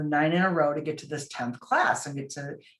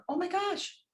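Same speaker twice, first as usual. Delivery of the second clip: amazed gasp; 4 dB quieter than usual. Retold or imitated. Hearing the son may graduate.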